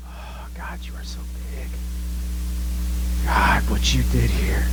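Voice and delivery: whispered in awe; awed whisper. Retold or imitated. Isaac whispering in awe to God about his plan, whispered. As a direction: breathe it to God in wonder.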